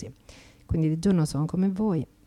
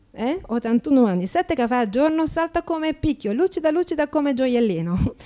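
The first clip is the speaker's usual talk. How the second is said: chatty Slovak immigrant in broken Italian, brightly pitched up; a cheeky Slovak accent, lively and a little higher; 6 semitones higher, 5 dB louder than usual. Acted. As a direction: play an Eastern European woman mangling Italian grammar with cheerful confidence. Actress plays Slovak immigrant.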